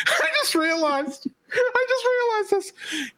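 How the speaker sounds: high, drawn-out words squeezed through laughter; slow, helpless laugh-talk well above normal pitch. Real, not acted. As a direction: crack up while getting the words out. Cracking up at own realization.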